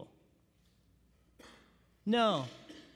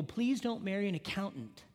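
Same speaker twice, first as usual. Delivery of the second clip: quiet advice; 2 semitones lower, 6 dB quieter than usual. Retold or imitated. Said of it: "I always tell people".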